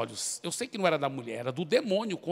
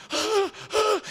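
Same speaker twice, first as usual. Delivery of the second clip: high frightened whimpers, much higher; demon whimper; 5 dB louder than usual. Retold or imitated. Possessed woman recoiling from the preacher, high whimper. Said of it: "e fazia assim".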